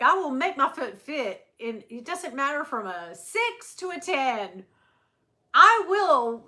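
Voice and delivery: loud, high, emphatic mock-French diva; badly faked French accent, hammered out. Imitating singer vowing to fit any shoe, bad French accent. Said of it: "she was like".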